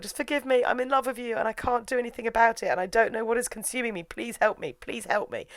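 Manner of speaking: high-pitched acted desperation; worked-up pleading. Claude begs Marion for forgiveness, mock desperate pleading. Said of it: "he's all worked up".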